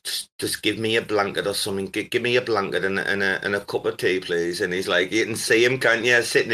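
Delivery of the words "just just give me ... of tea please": imitating someone delicate and hungover; softly, low, a feeble little plea; Shroot. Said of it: "your man Shroot's like".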